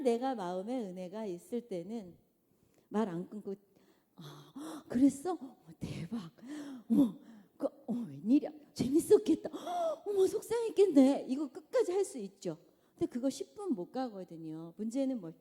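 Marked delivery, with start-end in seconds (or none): 4.1-11.2 gushing sympathy. Acted. Patient mother listening to child.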